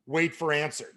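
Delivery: slow, over-emphatic sales question, then the direction; mock novice reciting a script; clueless script reading. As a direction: read cue and line alike, with pauses between. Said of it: "This is my script".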